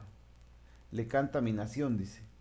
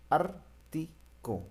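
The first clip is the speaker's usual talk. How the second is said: slow, drawn-out ártico; 5 semitones higher, much slower than usual. Shown as a demonstration. Teacher to class, slowly spelling out ártico. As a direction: stretch ártico out slowly, holding each syllable of ártico. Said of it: "está antes la A".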